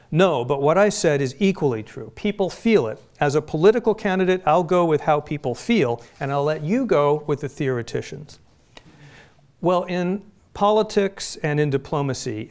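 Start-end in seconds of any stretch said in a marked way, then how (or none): 0.1-8.4 lightly voiced politician, a touch emphatic; quoting Gingrich. Lecturer quoting a politician to the audience, lightly emphatic. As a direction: read his words with mild mock insistence. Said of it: "Gingrich replied".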